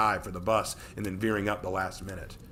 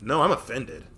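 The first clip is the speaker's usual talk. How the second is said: grumbled; 4 semitones higher, 4 dB louder than usual. Acted.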